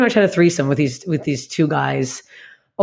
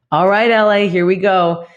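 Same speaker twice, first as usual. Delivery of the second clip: pumped up; 2 semitones higher, 4 dB louder, slower than usual. Retold or imitated. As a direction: announce it like a rallying cry. Arriving in LA, pumped up.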